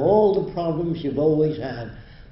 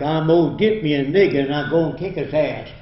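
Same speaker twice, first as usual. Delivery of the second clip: louder, mock uneducated Southern talk; imitated uneducated Southern speech; 5 dB louder than usual. Lecturer mimicking speech of an uneducated region, mock Southern accent. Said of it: "I'm imitating them".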